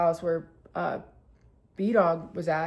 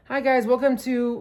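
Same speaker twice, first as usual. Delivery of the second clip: bartender greeting; 4 semitones higher, 4 dB louder than usual. Retold or imitated.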